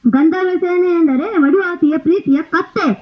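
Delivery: laughing through the punchline. Acted. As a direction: giggle out the reveal. King reveals the donkey, laughing. (ನಗುತ್ತಾ ಹೇಳುವುದು)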